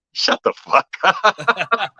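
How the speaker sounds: high, slow, squeaky shut the fuck up; mock disbelief. To a starstruck fan, high drawn-out mock disbelief. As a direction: stretch it out in giddy disbelief. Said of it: "And I'm like".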